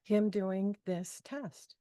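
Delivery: soft, slow plea to the universe; quiet prayer. Retold or imitated. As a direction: murmur a gentle, slow request upward. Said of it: "I just put it out in the universe".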